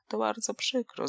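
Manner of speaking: a gentle sigh of regret; softly sad. Acted. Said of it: "ze smutkiem powiedziała Donka".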